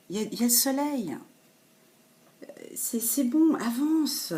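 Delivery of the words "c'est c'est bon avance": whispered reassurance. Real, not acted. Encouraging the viewer.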